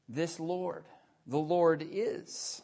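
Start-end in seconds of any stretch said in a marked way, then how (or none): 1.3-2.6 slow, with "is" drawn out and rising; stress on IS. Shown as a demonstration. Preacher stressing the present tense to the congregation, stress on "is". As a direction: hold on "is" and stop there. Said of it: "emphasize every word of this particular phrase".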